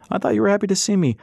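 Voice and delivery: high, mock-hurt teasing. A narrator's reading. Husband teases back.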